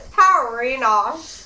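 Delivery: stretched loud shout, slow. Real, not acted. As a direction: belt the name out laughing. Laughing shout at friend's joke.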